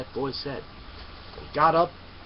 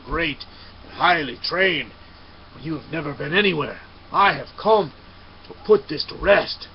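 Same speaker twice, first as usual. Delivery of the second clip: loud, indignant warrior's challenge; angry challenge; 4 dB louder than usual. Acted. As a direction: throw the challenge at him louder at the end. Samurai challenges monk angrily.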